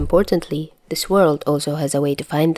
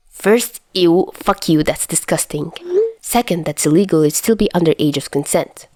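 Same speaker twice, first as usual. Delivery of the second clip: disgusted outburst. Acted. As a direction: push back, grossed out.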